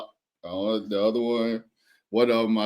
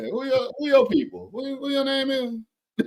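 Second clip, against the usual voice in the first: barbecue uncle voice. Pretend. Joking uncle voice continues.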